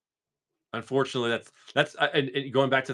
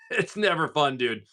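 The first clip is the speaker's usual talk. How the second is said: laughing; 5 semitones higher, slower than usual. Real, not acted. Laughing at his own complaint.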